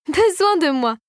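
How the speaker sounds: high-pitched mocking echo; sneering. A narrator's reading. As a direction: throw it back with a scornful sneer. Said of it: "ricana la fée Rosée".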